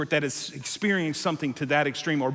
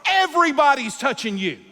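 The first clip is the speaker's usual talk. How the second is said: casual bro paraphrase; 8 semitones higher, 5 dB louder than usual. Retold or imitated. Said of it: "the Stuart Hall paraphrase".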